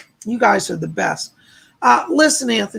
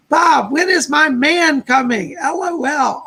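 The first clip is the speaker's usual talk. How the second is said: slow, louder, hammed-up wail; mock wail; 5 semitones higher, 3 dB louder, slower than usual. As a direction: whine it like a mock lovesick cry. Reading a viewer's comment aloud.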